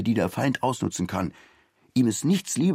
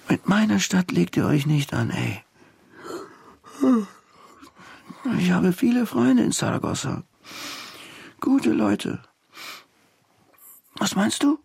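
defiant character voice; 11 semitones higher than usual. Acted. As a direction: puff up and challenge him. Fired-up figure defends city. (trotziger Ton, höher und lauter)

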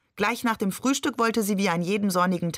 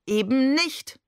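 bitter; 7 semitones higher, 3 dB louder than usual. A narrator's reading. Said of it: "sagte Barbe bitter".

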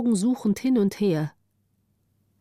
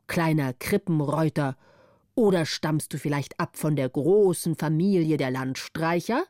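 lightly voiced old man, questioning then ordering; a hint of a gruff old farmer quizzing a child; slightly lowered old-man voice; old man's voice; 3 semitones lower than usual.

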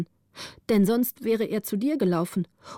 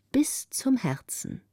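slow whisper closing the verse; hushed, reverent close; whispered ending; 3 semitones higher, 3 dB quieter, slower than usual. A narrator's reading. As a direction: breathe the last words out slowly. Poem ending softly whispered.

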